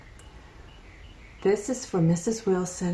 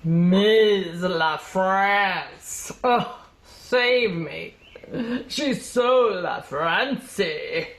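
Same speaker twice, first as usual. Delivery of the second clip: mocking drawl; much slower than usual. Drawn-out teen mockery.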